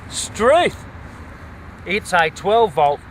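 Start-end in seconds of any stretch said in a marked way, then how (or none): 0.1-0.8 high, louder, rising struth; theatrical astonishment, pitched up and louder; hammed-up surprise. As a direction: play up the amazement at the find. Finds battery, exclaims again.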